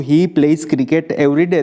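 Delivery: each word spaced out, very slowly; slow example sentence. Shown as a demonstration. Teacher reading an example sentence to students, very slow. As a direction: read it out slowly like dictation. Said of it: "દાખલા તરીકે એક વાક્ય આપ્યું".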